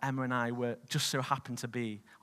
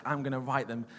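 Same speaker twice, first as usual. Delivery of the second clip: louder, half-joking angry rant; mock furious ranting; retold anger; 5 dB louder than usual. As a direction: replay the fuming threats with a grin. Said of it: "I was angry".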